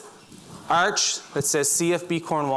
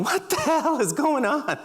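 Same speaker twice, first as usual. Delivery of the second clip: higher-pitched, baffled recruit; acted bewilderment; 8 semitones higher than usual. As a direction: play a recruit who's totally lost. Acting bewildered recruit's thought.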